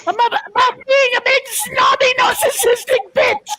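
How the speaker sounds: fast shouted snobby queen rant; hammed-up snob. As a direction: ham up the spoiled royal.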